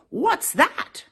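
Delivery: high whispered squeak; a small startled animal peeping up; squeaky critter. Acted. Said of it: "the critter squeaked".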